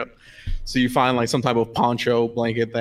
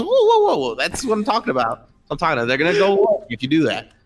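high, loud whoa easing down; hammed-up startled gnome; alarmed gnome; 5 semitones higher, 3 dB louder, faster than usual. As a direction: yelp whoa then scold kindly. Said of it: "and he goes".

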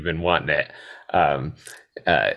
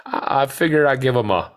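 higher-pitched imitation of a drunk about to be sick; queasy drunk impression; 8 semitones higher than usual. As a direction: play Billy Bob struggling through his words. Imitating drunk, queasy Billy Bob.

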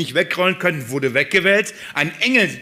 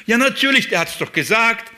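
mock realization; 6 semitones higher than usual. Preacher voices what the women should have said, high exclamation. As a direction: act out the obvious dawning on them. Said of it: "spätestens jetzt musst du sagen".

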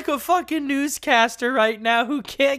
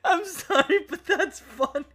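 high, helpless laughing apology; 8 semitones higher than usual. Real, not acted. Host apologising while cracking up at own impression, laughing. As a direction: say it through real laughter. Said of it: "I'm laughing because I".

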